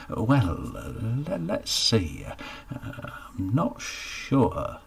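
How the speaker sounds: hesitant, halting, slow at the end; a lightly voiced shy man fumbling for words; embarrassed Geoffrey stalling the baker's question; sheepish mumble. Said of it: "he mumbled".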